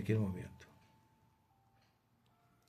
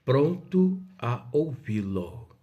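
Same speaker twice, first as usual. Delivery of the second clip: slow, firm declaration; measured, steady exclamation; 4 dB louder, slower than usual. Shown as a demonstration. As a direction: say it firmly and deliberately. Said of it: "Essa exclamação em tom firme".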